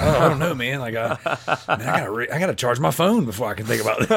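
teasing imitation, laughing through it; mock flustered friend. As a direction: lightly imitate a stalling, put-on-the-spot friend. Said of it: "You act like you're a gun to head".

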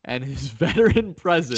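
trying to sell it while laughing; laughing through it. Real, not acted. Host praises Joe Flacco's veteran presence, unable to keep from laughing. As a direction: laugh breaking into a hyped-up boast. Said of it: "You can't even say that without laughing".

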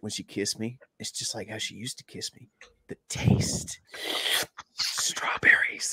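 soft whispered, slowing to a breathy hush; imitating a creepy lovestruck hush; dreamy whisper. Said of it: "He's like".

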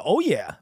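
我也 heard as "oh yeah"; "oh yeah" sound. Shown as a demonstration. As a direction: say 我也 so it rings like "oh yeah". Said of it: "when I say 我也".

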